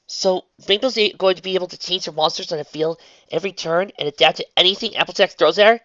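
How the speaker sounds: curious questioning voice; lightly voiced inquisitive girl; young woman voice. Twilight voiced.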